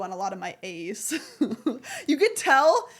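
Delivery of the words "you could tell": laughing. Real, not acted. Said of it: "I'm trying to speak very clearly".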